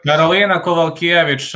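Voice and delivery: Kowalkiewicz with V sounds, "ko-val-KYE-vitch"; native-style pronunciation. Shown as a demonstration. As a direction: model Karolina Kowalkiewicz the Slavic way, W as V. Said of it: "Polish is similar to Bulgarian".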